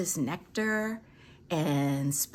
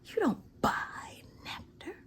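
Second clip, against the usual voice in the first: neighbor's hushed reply; 2 semitones lower, 7 dB quieter than usual. Retold or imitated. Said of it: "And she said".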